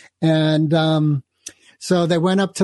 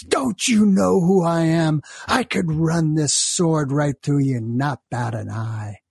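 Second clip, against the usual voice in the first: raging samurai; 3 semitones higher than usual. Acted. A samurai threatening the monk, hammed-up fury. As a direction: hurl it at him like a furious swordsman. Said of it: "he jumps off the horse and he goes".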